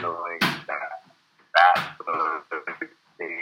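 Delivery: glitchy robotic voice from a bad call line; broken-up robot voice over the phone. Real, not acted. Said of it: "you sound like a robot".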